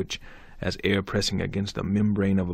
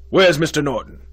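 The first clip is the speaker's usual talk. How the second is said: loud, high, urgent question; excited demand; 7 semitones higher, 10 dB louder than usual. A narrator's reading. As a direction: demand it in alarm. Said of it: "he demanded excitedly".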